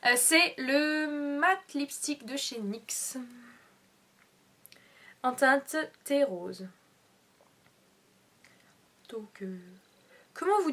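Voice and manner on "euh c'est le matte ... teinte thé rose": whispering. Real, not acted. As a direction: whisper it slowly. Whispered product name.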